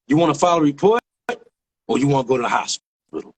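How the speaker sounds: unhurried offer with long pauses; measured question. Retold or imitated. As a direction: imitate a cop laying out two options. Retold cop's first, measured offer.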